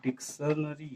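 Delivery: DICTIONARY broken slowly and softly into डिक्-श-न-री; syllable by syllable. Shown as a demonstration. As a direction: sound out डिक्शनरी in separate, quiet syllables. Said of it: "count करो". (डिक्शनरी को धीरे-धीरे, अक्षर तोड़कर बोलना)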